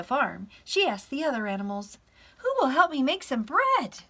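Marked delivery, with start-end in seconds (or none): 2.4-4.0 high, loud storybook hen; calling hen. Acted. Little Red Hen asking for baking help, calling out. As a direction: call out the question high.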